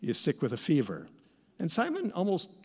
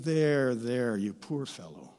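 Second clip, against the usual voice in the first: mock soothing; 3 semitones lower than usual. Imagined Jesus lightly soothing the possessed man. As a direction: gently comfort the poor fellow. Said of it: "Not a soothing".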